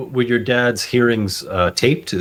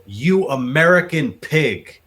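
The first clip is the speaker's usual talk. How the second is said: higher and slow, a mild mock scream; retold angry yell; 6 semitones higher, slower than usual. The dad retelling a driver's insult, mild mock scream. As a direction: imitate a foreign driver yelling out her window. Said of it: "screamed out the window".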